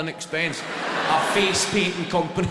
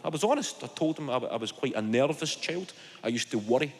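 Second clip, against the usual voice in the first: normal talking voice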